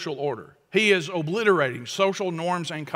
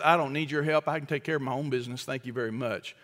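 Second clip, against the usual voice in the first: proud brush-off; 3 semitones lower, 5 dB quieter, faster than usual. Retold or imitated. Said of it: "Pride says".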